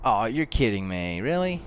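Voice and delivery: slow groan rising to a high, loud "Really?"; can't believe the game did that; disbelief. Real, not acted. Gamer groaning at the game in disbelief.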